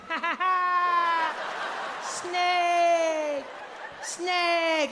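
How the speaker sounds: high, mocking child's laugh and cry; French kid. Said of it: "And this kid's like".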